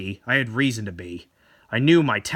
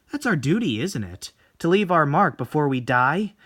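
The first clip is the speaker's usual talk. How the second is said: coolly self-assured seductress; Tomie voice. Acted. Tomie boasting of her beauty.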